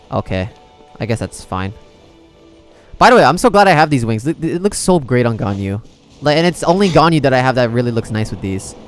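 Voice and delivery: ordinary talk, nothing marked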